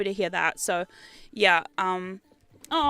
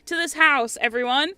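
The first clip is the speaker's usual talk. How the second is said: louder exasperated plea; 5 semitones higher, 4 dB louder than usual. Retold or imitated. Owner scolding the household, louder and exasperated. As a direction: plead with the whole house to calm. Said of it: "And you're like".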